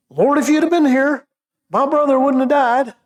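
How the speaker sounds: overplayed Martha. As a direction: ham up the grieving sister blaming Jesus for coming late. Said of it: "I may be overplaying Martha a little bit".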